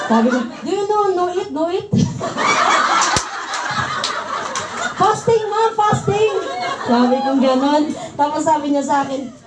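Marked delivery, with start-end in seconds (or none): 0.5-1.9 a hint of halting broken English. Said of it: "bark-bark tayo eh". 1.9-4.9 airy high-pitched laughter; breathy high laugh. Real, not acted. Laughs at her own story. 5.0-6.3 higher, pleading repeat; insisting. Retold or imitated. Insisting to the boss.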